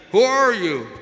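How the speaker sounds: high, loud call thrown back; echoing answer. Acted. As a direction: answer like a mountain echo, drawn out. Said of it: "He receives the answer".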